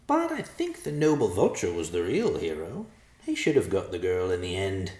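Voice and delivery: put-on vain old vulture; creepy vulture croak. Vulture character speaking.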